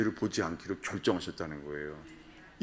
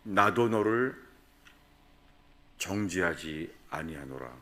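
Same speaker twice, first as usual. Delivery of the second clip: tender verdict; 2 semitones lower, slower than usual. Retold or imitated. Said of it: "그런 다음에 말씀하셨어요".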